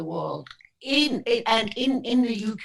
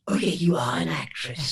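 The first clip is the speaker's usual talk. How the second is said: conceding brother; 4 semitones lower than usual. Retold or imitated. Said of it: "and my brother said".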